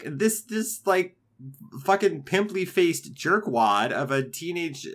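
mildly indignant retelling of his outrage. Retold or imitated. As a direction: imitate him getting a bit indignant. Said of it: "he was indignant".

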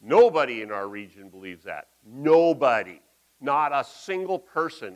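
the locals push back hard against humility; indignant outcry. Retold or imitated. Zealots protesting Jesus' words, loud indignant outcry. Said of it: "And they're going".

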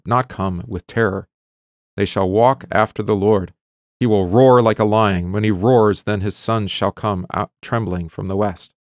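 measured, solemn reading of Hosea to the class; scripture reading. Acted. Teacher reads Hosea to the class, solemn reading voice. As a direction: read the prophet's words aloud with weight.

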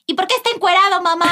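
imitating blurting little girl. Daughter asks loudly in mass.

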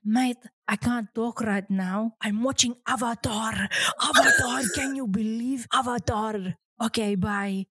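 put-on Greek-accented English. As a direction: mimic an excited Greek cinema-goer taking a call. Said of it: "I'm saying it in an accent".

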